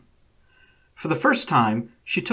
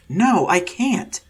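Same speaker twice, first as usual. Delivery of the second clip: retort; 6 semitones higher, slower than usual. A narrator's reading. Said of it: "Akira retorted".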